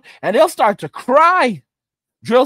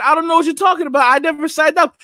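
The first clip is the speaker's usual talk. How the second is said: panicked draftee; 5 semitones higher, faster than usual. Retold or imitated. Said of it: "And you're saying".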